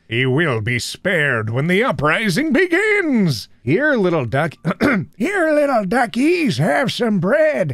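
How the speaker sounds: high squeaky duck voice; squeaky rubber duck. Acted. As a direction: squeak it out like a bath toy. Voicing the ducks in a meme.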